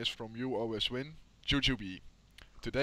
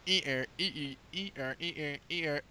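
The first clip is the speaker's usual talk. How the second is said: silly teasing voice; 3 semitones higher than usual. Acted. Teasing sing-song spelling of ear.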